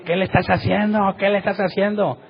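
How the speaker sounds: reproche alarmado imitado, tono agudo. Retold or imitated. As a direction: imita a quien exige explicaciones, con voz subida. Acompañante reprocha al que ora. (reproche agudo, actuado)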